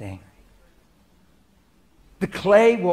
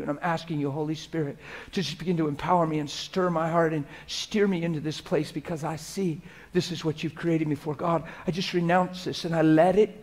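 softer, hushed and sincere words to God; model prayer; 3 dB quieter than usual. Shown as a demonstration. Pastor showing the church how to pray, hushed and sincere. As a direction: pray it gently as an example. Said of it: "You talk like that to God".

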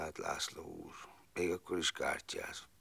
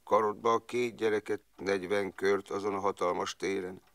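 harsh kapo command; 5 semitones higher, 6 dB louder than usual. Retold or imitated. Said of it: "mondta a kápó".

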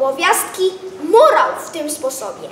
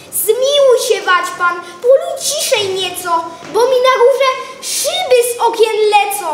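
pleading Paweł; 5 semitones higher, 3 dB louder than usual. Acted. Paweł begs Gaweł.

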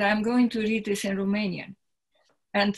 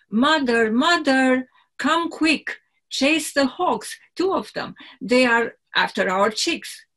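put-on a little boy calling his mother in alarm, higher; village boy calling; 4 semitones higher, 4 dB louder than usual. Boy running in to warn his mother, urgent call. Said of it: "put on paper the local dialect".

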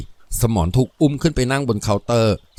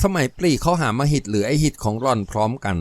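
usual speaking voice

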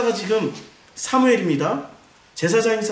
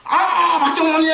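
high, loud, hammed-up delight; effusive phone greeting; 11 semitones higher, 5 dB louder than usual. Eli phoning a golf-loving elder, effusive mock greeting. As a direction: gush as if thrilled to hear them. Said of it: "엘리가 전화를 하는 거야".

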